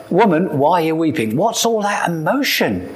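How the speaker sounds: lightly voiced baffled angel, pitch climbing; puzzled Spock-like angel. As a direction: question human tears like a mildly baffled alien. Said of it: "a bit like Spock from Star Trek".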